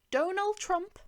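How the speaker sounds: high, loud incredulous repeat; can't believe the name he just heard; shocked disbelief. Acted. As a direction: Donald Trump blurted in disbelief. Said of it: "incredulous repeat of name".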